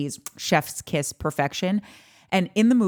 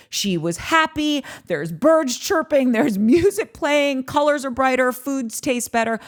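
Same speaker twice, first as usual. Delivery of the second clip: sing-song bliss; 6 semitones higher than usual. Retold or imitated. Parodying a happy movie montage.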